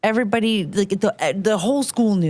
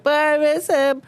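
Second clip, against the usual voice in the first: higher, mock-plaintive kid voice; childish whine; 8 semitones higher than usual. Girl answering her mom, higher mock-plaintive whine. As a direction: imitate your younger self pleading. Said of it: "I'm like".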